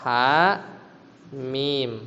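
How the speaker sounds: "Ha mim" split, "mim" lengthened; teacher's syllable-by-syllable "Ha mim"; demonstrated recitation. Shown as a demonstration. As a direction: say "Ha", pause, then a long "mim". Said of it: "bacanya gini ya".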